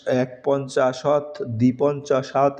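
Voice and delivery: এক পঞ্চাশত said slowly; teacher corrects to এক পঞ্চাশত; slow numeral demo. Shown as a demonstration. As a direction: draw out এক পঞ্চাশত.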